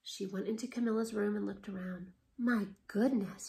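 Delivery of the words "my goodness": whisper. Acted. Old woman tuts at Camilla.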